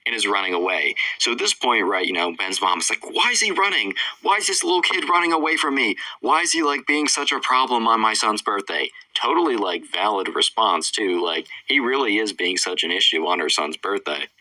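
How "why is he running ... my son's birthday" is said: exasperated mom. Retold or imitated. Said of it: "Ben's mom is getting super worried".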